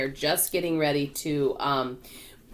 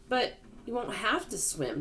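higher, gentle reassurance; calm; 6 semitones higher, 4 dB quieter than usual. A narrator's reading. James reassures the worried non-swimmers, calm. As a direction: soothe them without any rush. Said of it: "James said calmly".

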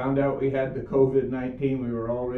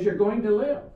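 "live" pushed up high and louder, rising; insistent urging; 9 semitones higher, 4 dB louder than usual. Retold or imitated. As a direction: press her point, pleading, on "live". Wife insists a third time.

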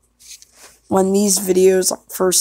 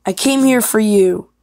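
louder, lightly acted declaration; audition line; 2 semitones higher, 5 dB louder than usual. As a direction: project it to the one you came for. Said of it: "gonna do the next one".

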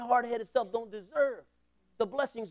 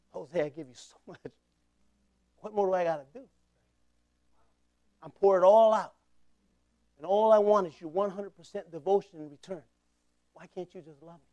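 God pleading. Retold or imitated. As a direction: gently plead with a wayward son. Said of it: "I pictured my Father in heaven".

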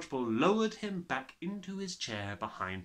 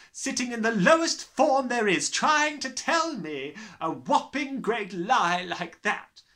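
loud, high, booming tyrant voice; bullying headmistress; 11 semitones higher, 8 dB louder than usual. Acted. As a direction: gloat like a brutal headmistress. Trunchbull's voice held.

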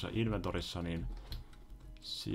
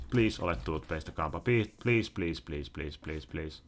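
pleading; slower than usual. Real, not acted. Player begs the game for an item, pleading. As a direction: beg repeatedly, letting it fade. Begging game for the needed items.

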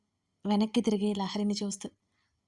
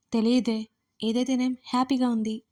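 cheerful; 2 semitones higher than usual. Acted. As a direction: toss it off happily, not a care. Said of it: "అన్నా నేను హుషారుగా".

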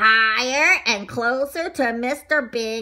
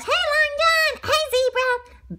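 high, drawn-out friendly call; calling out greetings; 13 semitones higher, slower than usual. Acted. Arnie greets the other donuts, high calling-out. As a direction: hail them in a high, stretched voice.

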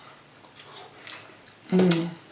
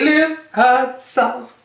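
announcer voice; 3 semitones higher, much slower than usual. Acted. Showing off the sauce bottle.

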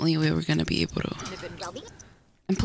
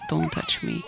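low grumpy mock voice; lightly voiced grumpy sim. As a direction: growl it like a cranky little sim. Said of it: "Sometimes she's like".

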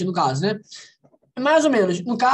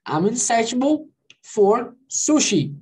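slow example sentence; slower than usual. Shown as a demonstration. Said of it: "por exemplo".

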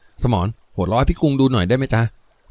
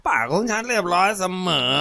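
put-on drunken slur; 7 semitones higher than usual. A narrator's reading. Ngaun slurring drunk boasts to his gang. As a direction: mumble it like a tipsy bully. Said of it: "ผู้พูดพูดด้วยเสียงอ้อแอ".

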